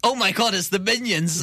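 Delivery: high, thrilled groupie squeal; excited fan shriek. Retold or imitated. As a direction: gasp it out like a starstruck fan. Fans screaming at the minions.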